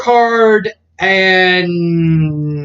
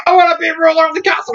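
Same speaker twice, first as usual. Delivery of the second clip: mock villain boast; 9 semitones higher, faster than usual. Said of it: "Soma's like".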